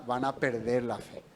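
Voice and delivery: soft, careful delivery of "perder la fe"; softened warning. Shown as a demonstration. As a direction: break the hard news "perder la fe" quietly. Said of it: "Es difícil decirle a la persona".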